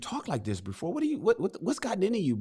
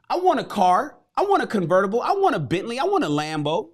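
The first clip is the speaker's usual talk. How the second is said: higher, louder, each want hit hard; eager wanting; 5 semitones higher, 4 dB louder than usual. Acted. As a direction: list your dream cars like a kid. Excited modern wish list.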